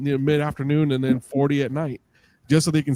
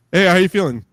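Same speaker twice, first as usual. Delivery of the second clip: cheerful doctor voice, higher and louder; bright nurse checking in; bad acting; 5 semitones higher, 7 dB louder than usual.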